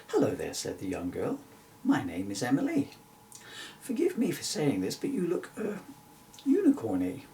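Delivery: lightly voiced young girl, polite and curious; a hint of a bright little girl; young girl Emily. Narrator voicing Emily meeting the unicorn, light girl voice.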